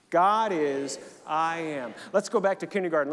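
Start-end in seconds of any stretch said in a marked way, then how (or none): 0.1-1.9 louder, clear affirmation for the congregation; leading the affirmation. Shown as a demonstration. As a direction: call it out with the church. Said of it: "Say that with me".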